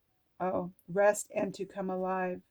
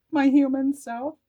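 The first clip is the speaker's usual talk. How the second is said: laughing through the words, higher and louder; 6 semitones higher, 8 dB louder than usual. Real, not acted. Reader laughing at her own human self, louder. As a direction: laugh it out in recognition.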